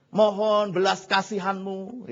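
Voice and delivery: permohonan lambat penuh hormat; hamba memohon belas kasihan. Acted. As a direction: meniru hamba menghadap raja. Pengawal memohon kepada raja. (memohon perlahan kepada baginda)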